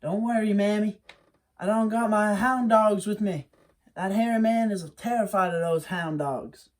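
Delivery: put-on young Wiley. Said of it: "And Wiley would always say".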